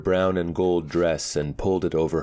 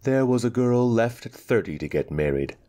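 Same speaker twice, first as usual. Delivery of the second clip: defensive; 6 semitones higher than usual. Acted. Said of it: "a little defensively".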